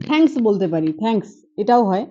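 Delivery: "thanks" said as থ্যাংকস, slow and clear; slow demo of "thanks" with dental থ; model word thanks. Shown as a demonstration. Teacher slowly modelling thanks for students. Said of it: "এটাও T H দিয়ে শুরু হয়েছে".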